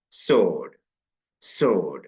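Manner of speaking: സോഡ് said sord, w dropped; silent w. Shown as a demonstration. Teacher repeating the model for students, സോഡ് with no w. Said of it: "W ഇല്ലാതെ വായിച്ചു നോക്കൂ".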